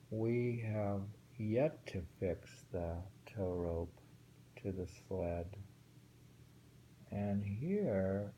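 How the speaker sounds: slow, measured haiku reading; poem reading. Acted. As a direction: read each line of the haiku with care. Reads a haiku aloud.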